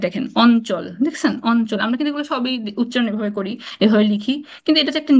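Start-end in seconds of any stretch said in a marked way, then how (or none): 0.4-0.8 অঞ্চল with ঞ said as a plain n; n sound before ch. Shown as a demonstration. Teacher showing students the rule, n sound in অঞ্চল. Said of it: "ইউ এর উচ্চারণ নয়ের মতো হয়". 1.5-1.8 অঞ্চল with ঞ said as a plain n; n sound before ch. Shown as a demonstration. Teacher showing students the rule, n sound in অঞ্চল. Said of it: "ইউ এর উচ্চারণ নয়ের মতো হয়".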